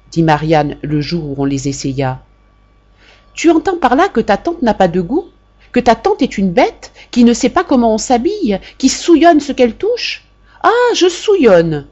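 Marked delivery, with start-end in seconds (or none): 3.3-11.9 louder, higher, building fury; aunt berating her niece in a rising rage; furious aunt. A narrator's reading. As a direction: tear into the niece, slowing on the last cry.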